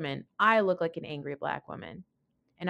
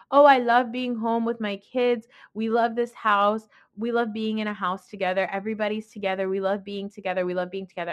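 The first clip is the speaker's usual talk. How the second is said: hammed-up phony devotion, louder at first, settling down; mock fake gushing; 3 dB louder than usual. Housewife showing off home and kids, mockingly fake. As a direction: imitate a phony doting mother. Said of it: "The whole thing was so fake".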